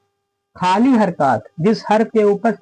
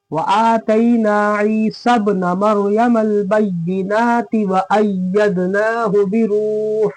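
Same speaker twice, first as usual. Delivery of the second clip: slow, measured chant with held long vowels; Quran recitation; much slower than usual. Shown as a demonstration. Teacher reciting the verse for students, slow measured chant. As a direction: recite slowly and evenly, drawing out long syllables.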